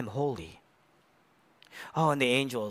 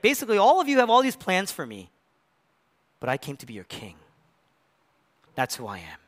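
Jesus declaring; 3 semitones lower than usual. Retold or imitated. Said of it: "he's like".

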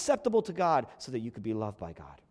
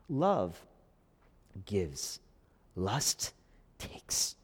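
hushed aphorism; 11 semitones lower, 5 dB quieter, much slower than usual. Real, not acted. Hushed aphorism, whispered words.

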